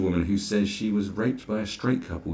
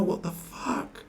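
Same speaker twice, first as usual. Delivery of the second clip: muttered aside; 8 dB quieter, slower than usual. Real, not acted. Sudden aside in the rant.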